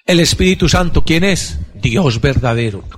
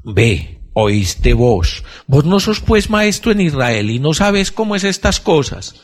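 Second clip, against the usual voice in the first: Jesus; 3 semitones higher than usual. Retold or imitated. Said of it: "Jesús le dijo".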